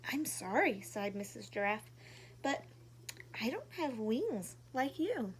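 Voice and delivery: gentle storybook reading voice; reading to children. A narrator's reading. Reading a picture book to young viewers, gently. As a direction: read it warmly like to little kids.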